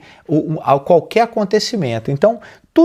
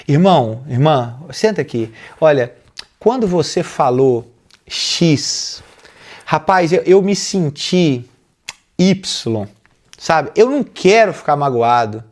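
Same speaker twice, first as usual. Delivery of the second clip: calm sincere talk. Shown as a demonstration. Pastor shows how to tell a sister she hurt you, calmly. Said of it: "é chegar na pessoa".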